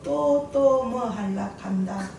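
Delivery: slow, drawn-out Gyeongsang dialect. Acted. God answering her eager prayer, in slow Gyeongsang dialect. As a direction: draw it out in a Gyeongsang accent. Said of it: "경상도 버전으로".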